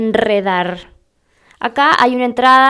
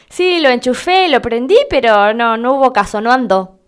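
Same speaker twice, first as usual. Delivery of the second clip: acted everyday complaint. Example of someone reporting broken appliance.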